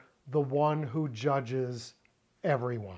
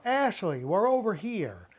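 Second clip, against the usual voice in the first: higher mock shout across a room; lightly raised call to get her attention; 5 semitones higher than usual. Shown as a demonstration. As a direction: call to your daughter across the hall. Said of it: "I raise my hand and shout".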